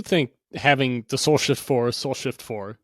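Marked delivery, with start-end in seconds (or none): 1.9-2.8 playful echo. Shown as a demonstration. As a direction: repeat Soul Shift four a bit softer as an echo. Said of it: "I'm just gonna say as much as I can".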